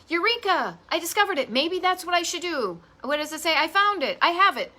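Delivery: high, excited cry of discovery; high-pitched, delighted announcement; playful eureka moment. Pretend. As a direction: exclaim it like a mock big discovery.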